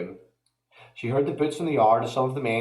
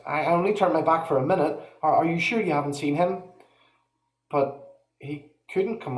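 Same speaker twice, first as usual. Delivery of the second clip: higher, pressing, panicky mother; frantic mother; 5 semitones higher than usual. Acted. Mother who lost her son, higher and panicked. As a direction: plead and order in panic.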